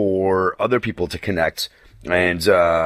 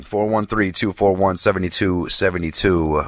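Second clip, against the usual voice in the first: slow read; 3 semitones lower, slower than usual. Shown as a demonstration. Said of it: "repeating the call-in number".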